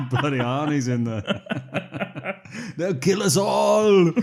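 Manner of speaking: hammed-up terrified cry; slow, high laughing panic; mock panic. Mock panic, film scene.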